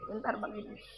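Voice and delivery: breathy whisper off mic; whispered aside. Real, not acted. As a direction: quietly ask the host to hold on. Asks host to wait, aside. (berbisik minta tunggu sebentar)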